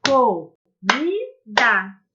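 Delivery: Comida stretched very slowly as co-mi-da; modelling syllable counting for children. Shown as a demonstration. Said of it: "Repita com a palavra comida".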